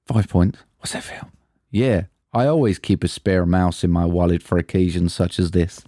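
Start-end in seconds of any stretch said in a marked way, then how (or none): 0.8-1.3 breathy whispered question; whispered catchphrase. Acted. Host teasing his co-host with the quiz line, whispered. 1.7-5.8 lower-pitched read of the line as a film character; a lightly voiced movie character; film quote in a character voice. Host reading a quote for his co-host to guess, lightly voiced. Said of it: "in some similar voices".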